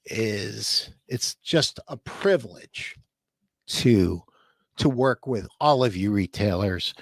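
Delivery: choked up. Real, not acted. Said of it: "the reason I'm getting a little choked up".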